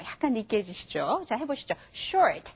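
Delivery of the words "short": "short" with a strongly curled R; rolled English R. Shown as a demonstration. Teacher asking learners to repeat, heavily R-colored pronunciation. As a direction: roll the R in "short" richly, a little greasy. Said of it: "확실하게 굴려주세요".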